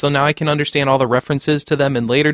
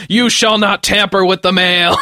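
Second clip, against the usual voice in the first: stern mailman voice; 4 semitones higher, 3 dB louder than usual. Retold or imitated. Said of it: "three other mailmen jump out and tell me".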